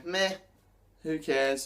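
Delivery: mock indifference with a shrug; indifferent shrug. Shown as a demonstration. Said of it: "shrugging your shoulders".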